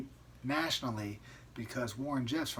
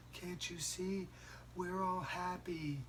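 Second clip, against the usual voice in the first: slow, high, eerie flat monotone; like a brainwashed cult wife, in monotone; 6 semitones higher, 5 dB quieter, much slower than usual. Retold or imitated. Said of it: "this weird monotone voice".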